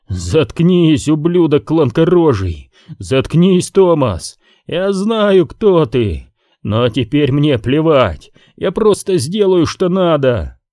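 high, wild furious shouting; furious yelling. Acted. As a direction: spit the words out in rage. Gally screams at Thomas, panting.

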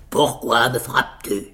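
lightly voiced grumpy giant, woken up; grumbling giant. Woken giant asks his companion why he hits him, grumbling.

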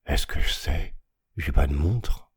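a hint of a gruff ragpicker grumbling; mildly grumbled, lightly voiced old ragpicker; gruff ragpicker grumble. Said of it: "Il grogna".

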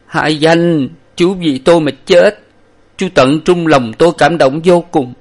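crying farewell to a fallen comrade; weeping farewell. A narrator's reading. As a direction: mourn a loyal friend's death. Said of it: "vừa khóc vừa nói".

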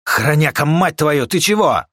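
high, loud startled shout; shocked yell. Acted. Shocked yell after gunshot.

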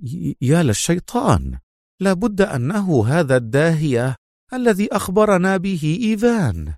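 it dawns on him all at once; sudden exclamation. A narrator's reading. Officer realising he was tricked, crying out. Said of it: "ثم صاح فجأة".

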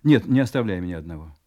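loud, insistent; firm command. Acted. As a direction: stop her with force. Husband insists she stay.

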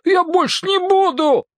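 put-on high, whiny boy's wail; frightened boy pleading, high; silly wail. A narrator's reading. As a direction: wail it like a caught scared kid. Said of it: "глупый вопль".

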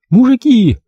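high, loud desperate shout; woman yelling at the gunmen. A narrator's reading. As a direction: scream it in despair. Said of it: "отчаянно заорала Верка".

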